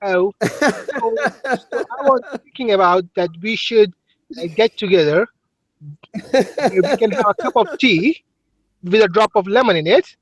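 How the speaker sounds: lightly posh Englishman inviting her to tea; put-on English accent. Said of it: "that is a good English accent".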